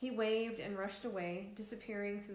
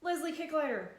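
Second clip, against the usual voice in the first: sputtered; 7 semitones higher, 7 dB louder than usual. A narrator's reading. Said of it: "and sputtered".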